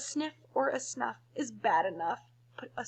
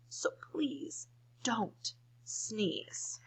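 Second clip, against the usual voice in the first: whisper; 3 semitones higher, 6 dB quieter, much slower than usual. Acted. Hippo's hushed plea.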